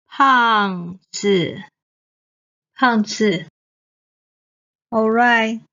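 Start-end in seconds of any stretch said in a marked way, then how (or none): 0.1-3.5 胖子 with falling 胖 and a quick light 子; neutral tone. Shown as a demonstration. Teacher drilling learners, falling 胖 then light 子. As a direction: fall sharply on 胖, then a short 子. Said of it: "子 is the neutral tone".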